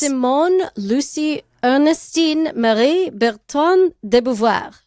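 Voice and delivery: the full name read slowly with French sounds; French pronunciation. Shown as a demonstration. Host proudly reading the guest's full French name. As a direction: lay out Simone Lucie Ernestine Marie Bertrand de Beauvoir carefully in French. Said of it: "some of my French accents are not so great".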